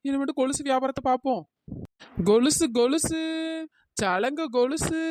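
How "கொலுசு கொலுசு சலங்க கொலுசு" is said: calling out wares, drawn out at the end; vendor's call. Acted. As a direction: hawk anklets to passers-by. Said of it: "கொலுசு, கொலுசுன்னு கத்திட்டு கிடக்கா". (கூவி விற்கும் குரல்)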